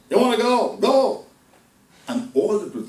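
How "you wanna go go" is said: loud, high-pitched send-off; forceful dismissal. Acted. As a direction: send the wayward son away at full voice. Father dismisses the wayward son.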